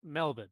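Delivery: Melbourne said MEL-bən, short swallowed ending; local pronunciation. Shown as a demonstration. Host shows Americans how to say Melbourne, local pronunciation. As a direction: end Melbourne on a quick 'bən', no R. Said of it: "It's Melbourne".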